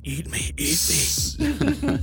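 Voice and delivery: slow, soft chicken voice; pleading chicken. Pretend. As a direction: beg gently to be eaten. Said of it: "Becky's eyes are saying".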